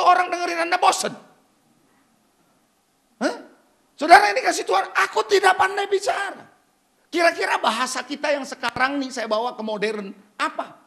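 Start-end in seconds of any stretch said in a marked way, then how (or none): 5.1-6.4 shouted, stress on tidak; preacher booming the excuse back; loud quote. Retold or imitated. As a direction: throw the excuse out at full voice. Preacher repeats excuse forcefully.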